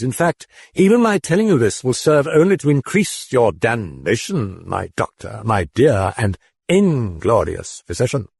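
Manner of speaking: high, exultant demon voice; gloating demon. A narrator's reading. The demon gloating over the physician's damnation. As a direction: spread your wings in glee.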